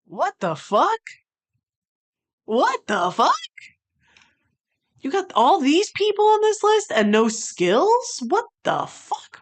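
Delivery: exasperated at the list maker; outraged. Real, not acted. Outraged at missing Skills.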